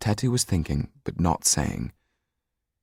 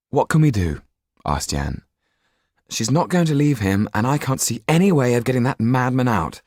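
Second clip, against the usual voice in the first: raised, higher anxious question; worried Jan; 7 semitones higher than usual. Acted. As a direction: fret aloud, stuck for a plan. Jan asks in despair.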